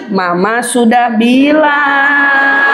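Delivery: slow, drawn-out mock reproach; hammed-up I-told-you-so; told-you-so mother. Mother scolding her bumped child, slow told-you-so. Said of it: "Ibu mau bilang lagi".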